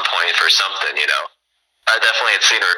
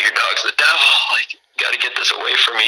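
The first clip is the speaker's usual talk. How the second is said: higher, mock panicked tripping friend; freaking out; 4 semitones higher than usual. Tripping friend scared of the schnauzer, mock panicked higher voice. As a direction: act spooked by the dog. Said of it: "he would, like, freak out".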